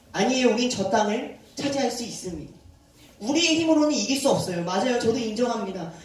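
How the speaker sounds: bold declaration. Retold or imitated. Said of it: "담대하게 선포했어요".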